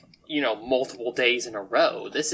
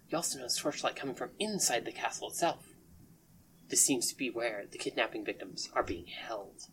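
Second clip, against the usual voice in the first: scene setting. A narrator's reading. Game master describing ruined castle to players, hushed narration. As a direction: hush down to paint an ominous view.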